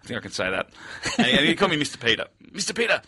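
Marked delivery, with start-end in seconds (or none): 2.5-3.0 higher-pitched put-on Asian accent; Asian-accented driver, voiced higher; imitated Asian accent. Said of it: "Oh, I do the accent continually".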